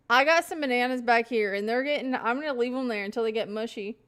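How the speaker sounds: loud for no reason, talking at the camera; yelling. Real, not acted. Talking loudly to chat about bananas, yelling. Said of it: "I don't know why I'm yelling".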